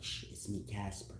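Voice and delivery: whispered, soft creepy "it's me, Casper"; hushed whisper. Retold or imitated. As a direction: hush her like a creep in the dark.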